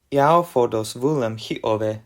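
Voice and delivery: yao fodos vulem hi ove sounded out with care; careful demo of yao fodos vulem hi ove; conlang word demo. Shown as a demonstration. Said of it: "we have".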